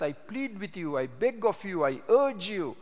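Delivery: earnest pleading. Retold or imitated. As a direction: plead with them as Paul did, voice lifted. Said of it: "we have to make a gospel plea".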